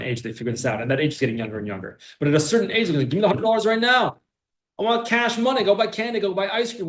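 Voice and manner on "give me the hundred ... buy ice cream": put-on high, eager child voice begging for cash now; demanding child. Child begging the parent for money, high and eager. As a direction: play the greedy little kid wanting candy.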